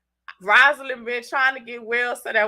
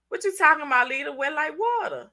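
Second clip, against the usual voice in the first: mock baffled question, pitched higher; imitating puzzled people; 5 semitones higher than usual. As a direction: mimic someone who is confused. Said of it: "people be like".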